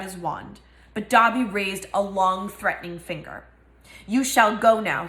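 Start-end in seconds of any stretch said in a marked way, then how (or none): 4.1-5.1 fiercely. Acted. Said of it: "he said fiercely".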